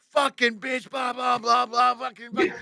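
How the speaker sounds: high-pitched ranting tirade; acted-out furious driving rant; screaming rant. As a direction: rant at the top of your pitch, nonstop. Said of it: "I'm screaming. I'm going".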